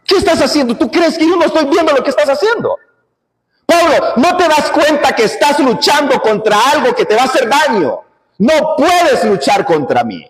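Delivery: the Lord rebuking Saul on the road; God confronting the persecutor, urgent. Acted. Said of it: "Viene el Señor y le dice".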